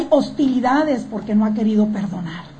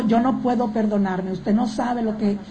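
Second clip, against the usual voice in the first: guilty despair; 4 semitones lower, 5 dB quieter than usual. Acted. Voicing woman who cannot self-forgive.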